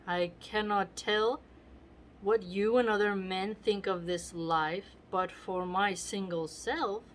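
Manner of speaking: measured dramatic reading of verse; lightly theatrical verse recital; Shakespeare reading. Acted. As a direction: read the speech like an actor on stage. Teacher reads Shakespeare speech aloud.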